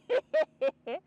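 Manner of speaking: high, loud cackle imitating him; mocking laugh. Acting out the helper laughing at her, mock cackle. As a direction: laugh like the man who found it hilarious.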